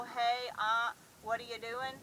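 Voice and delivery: loud, sharp check to a dog; verbal correction to dog. Shown as a demonstration. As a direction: call the dog up short. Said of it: "I start out with a verbal".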